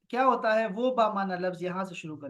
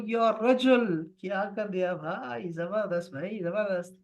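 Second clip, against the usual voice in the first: impressed exclamation. Shown as a demonstration. Guest praises host's breakfast, impressed and delighted. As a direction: marvel at a great breakfast. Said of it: "تو میں کہوں گا".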